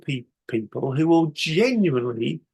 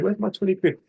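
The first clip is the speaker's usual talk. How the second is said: annoyed repeat; 4 semitones higher than usual. Retold or imitated. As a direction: repeat it, grumbling to yourself. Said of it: "I'd be annoyed about it".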